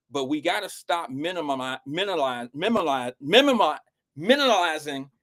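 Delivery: talking around a retainer; words slurred by a retainer; wearing a retainer. Real, not acted. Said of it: "Sorry, I got my retainer in".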